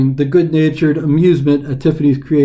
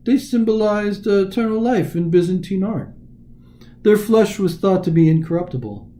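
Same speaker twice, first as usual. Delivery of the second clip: mild mock disbelief, slightly raised pitch; spoof of incredulity; 4 semitones higher, 3 dB quieter than usual. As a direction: tease her with pretend amazement. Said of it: "he said in a spoof of incredulity".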